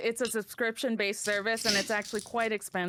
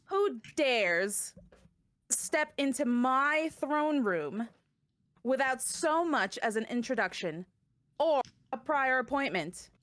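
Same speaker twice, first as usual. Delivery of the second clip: imperious goddess. Acted. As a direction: challenge the intruders from your throne. Goddess challenges intruders in throne room.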